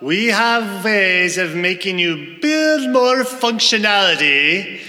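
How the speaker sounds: put-on menacing foreign spy, lightly accented; a hint of a cool villain's threat; cool foreign spy menace. Product owner threatens in German-style accent.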